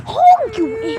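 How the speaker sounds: high angry yell, insult trailing off; angry shout. Real, not acted. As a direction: snap at the driver. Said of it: "Sorry, guys. I got mad".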